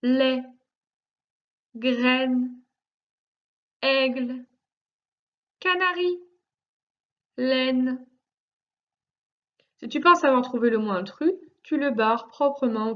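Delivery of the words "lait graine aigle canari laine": "Lait, graine, aigle, canari, laine" repeated singly, a long pause after each; careful word-by-word reading. Shown as a demonstration. Teacher repeating the list so the pupil hears the intruder, careful word-by-word reading. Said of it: "Écoute bien".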